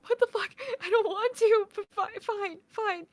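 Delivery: very high mock whine; protest, then grudgingly give in, hammed up; high-pitched retold sulky surrender; whiny protest. Retold protest, giving in to dad.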